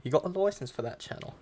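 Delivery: mock British busybody; officious British questioning; British accent. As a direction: put on British for the joke. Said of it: "British people be like".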